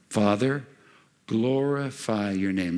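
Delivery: measured, drawn-out prayer; solemn prayer. Shown as a demonstration. Preacher repeating the prayer for the congregation, slow and solemn. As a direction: pray it slowly, word by word.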